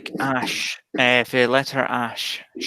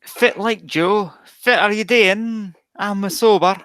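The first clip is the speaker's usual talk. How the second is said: Doric accent; 5 semitones higher than usual. Shown as a demonstration. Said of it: "can you do a Doric accent?".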